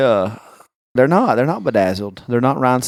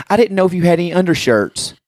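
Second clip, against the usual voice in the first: higher-pitched sales-assistant voice; imitated store clerk; 6 semitones higher than usual. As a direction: mimic a helpful clerk, pitched up. Voices the store clerk offering shirts.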